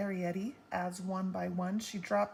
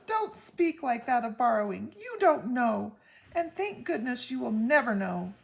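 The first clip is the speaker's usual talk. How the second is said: grave warning; 4 semitones higher, 6 dB louder than usual. A narrator's reading. Homily warns gravely.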